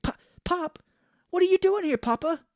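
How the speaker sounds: hammed-up bewildered son; mock shocked son. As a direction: cry out to his dad in shock. Joe shocked seeing dad.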